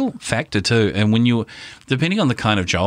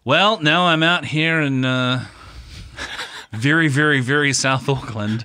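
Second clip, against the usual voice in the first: slightly drawn-out, higher commuter voice; mock stranded commuter; 5 semitones higher, slower than usual. Voicing a commuter stuck out in South Auckland, mock plaintive. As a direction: lightly play someone living miles out.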